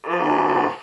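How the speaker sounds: loud guttural "ugh"; big exasperated groan; disgusted groan. Real, not acted. Disgusted reaction to the combination.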